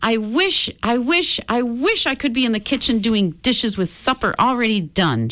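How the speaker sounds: high, sustained wishing voice; fervent wishing. A narrator's reading. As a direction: chant the wish eagerly, pitched well up. Rosie makes a fervent wish aloud.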